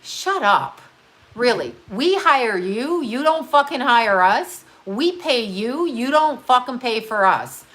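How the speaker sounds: slow, emphatic rant; indignant rant. Real, not acted. Ranting at the governor, slow and indignant. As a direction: spell out each word with disdain.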